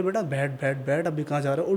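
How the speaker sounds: a touch of a sinister spirit, voice sinking; coaxing turned menacing; deepening ghost voice. Acted. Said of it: "आवाज़ deep होती जा रही है".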